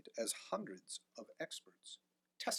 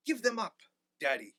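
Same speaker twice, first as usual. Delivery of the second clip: pleading; 8 semitones higher, 8 dB louder than usual. A narrator's reading. Son pleads with father.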